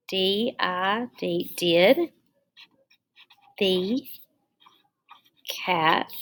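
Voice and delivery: word-by-word dictation. Shown as a demonstration. Spells and dictates while writing.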